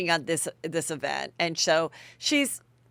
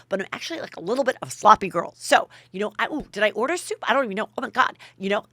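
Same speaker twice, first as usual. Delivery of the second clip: imitating Ramona; 3 semitones higher, faster than usual. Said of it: "and she goes".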